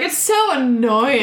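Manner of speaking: long drawn-out mock complaint; over-the-top diva. Acting out a star fanning herself in public, over-the-top. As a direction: drag it out like an exaggerated diva. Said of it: "She's really being extra".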